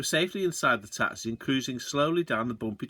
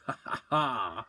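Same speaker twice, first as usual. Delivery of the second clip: put-on slow old-man chuckle; soft, slow chortling laugh; 3 dB quieter than usual. A narrator's reading. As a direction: chuckle it out, ha ha ha, slowly. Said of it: "Charlie Kinch started chuckling".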